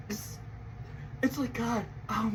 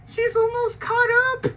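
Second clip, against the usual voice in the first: even higher, bursting hype; very excited; 12 semitones higher, 3 dB louder than usual. Real, not acted. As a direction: push the excitement to the top.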